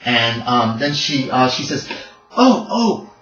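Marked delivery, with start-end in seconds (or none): 2.4-3.1 put-on high, lightly Austrian-accented voice; a hint of an Austrian accent, high and polite; thick Austrian accent. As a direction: play Gretchen with a hint of Austrian. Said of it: "talks with a very thick accent".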